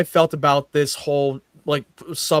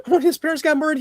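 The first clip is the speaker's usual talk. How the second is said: higher and louder, incredulous; disbelieving rant at a kid; excited rant; 12 semitones higher, 7 dB louder than usual. Retold or imitated. Co-host ranting about Bruce's age, high and loud.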